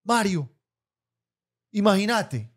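mom's story voice. Retold or imitated. Mother telling dad a story, drawn out. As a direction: stretch it out like telling gossip.

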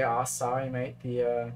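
half-hearted, badly faked Australian accent; shitty Australian accent. Game commentator joking as an Aussie, bad Australian accent. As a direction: attempt a rough Aussie accent, not convincingly. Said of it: "that was a shitty Australian accent".

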